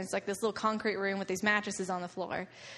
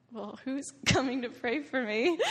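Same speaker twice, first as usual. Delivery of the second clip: laughing quote; 4 semitones higher than usual. Retold or imitated. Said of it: "I'm like".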